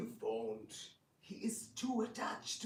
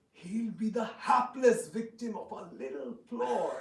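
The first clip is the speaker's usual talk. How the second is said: chuckling through the scheme, a touch louder; gloating laugh; 3 semitones higher, 6 dB louder than usual. Acted. Plotter gloating to his ally, laughing. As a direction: savour the plot with a laugh. Villain plotting against Balaram.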